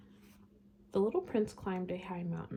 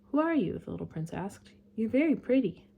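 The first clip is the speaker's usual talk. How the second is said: little prince voice; 4 semitones higher, 6 dB louder than usual. Acted.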